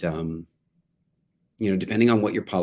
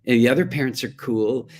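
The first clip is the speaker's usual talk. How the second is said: whiny guilt trip; 4 semitones higher, 3 dB louder than usual. Retold or imitated. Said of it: "attempt to use guilt trips".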